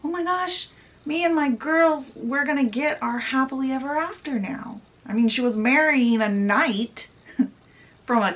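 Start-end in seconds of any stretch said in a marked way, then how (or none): 0.0-4.8 high, giddy rush of joy; giddy gushing. Acted. Lady Tremaine dreaming of happily ever after, giddy and high. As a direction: squeal it like a girl who just got her fairy tale.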